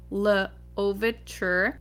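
lightly French Louverture, drawn out very slow; French accent. Shown as a demonstration. Host showing off her best French accent for Louverture. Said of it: "that was my best French accent".

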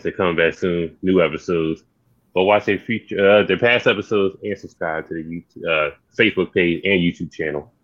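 rushing plugs, running out of breath; breathless after a long run of plugs. Real, not acted. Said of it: "I'm out of breath".

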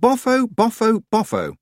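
put-on high, loud furious girl; angry shout. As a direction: shout it at the old crone. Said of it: "she shouted".

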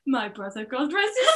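put-on quiet Welsh accent, rising on soul. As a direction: Welsh accent, lilting up at the end. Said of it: "I can't do that accent".

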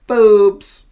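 loud announced word; loud deadpan. Real, not acted. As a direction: punch the word Boobs. Mock announcing the movie's word.

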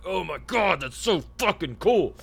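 high-pitched, gushing mock amazement; awestruck fanboy. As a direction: gush like a starstruck kid. Gushing as his awestruck younger self.

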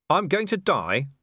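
high-pitched startled query; alarmed question. Acted. Vimes asks Death about his fate, alarmed. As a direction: lift the pitch sharply in dismay.

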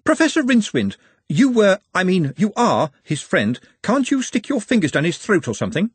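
high, urgent wizard voice; Ponder. A narrator's reading. Ponder asks Rincewind to help his friend, high and urgent. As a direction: press him anxiously, pitched well up.

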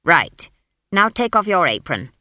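loud, decisive order; forceful witch issuing instructions; commanding. Acted. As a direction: take charge firmly. Witch giving orders to smith.

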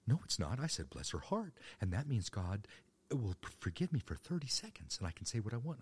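high, loud self-justifying church lady; Southern church lady. Retold or imitated. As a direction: defend your gossip as a pious Southern woman. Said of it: "the woman would say".

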